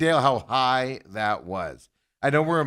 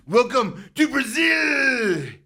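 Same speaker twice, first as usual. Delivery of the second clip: mock welcome; 12 semitones higher, 5 dB louder, much slower than usual. Announces his trip to Brazil.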